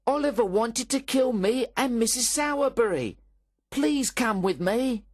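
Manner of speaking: high, loud whining plea; crying out. Acted. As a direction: run in wailing to the beadle. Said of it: "cried Noah".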